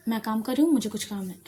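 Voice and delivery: firm, curt dismissal; strict voice. Acted. Elder sister dismissing Shruti while busy, mildly strict. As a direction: brush her off, a touch strict. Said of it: "ऐसे strict voice में".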